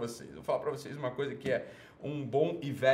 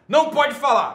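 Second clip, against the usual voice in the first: much higher and louder shrill mock cry; mocking the PC crowd; 10 semitones higher, 11 dB louder than usual. Host imitating politically correct critics, shrill mock cry. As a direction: parody the scolds. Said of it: "O pessoal é assim, ó".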